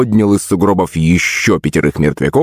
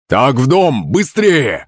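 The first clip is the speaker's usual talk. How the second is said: screaming in fear; 6 semitones higher, slower than usual. Acted. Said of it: "закричал трясущийся дед".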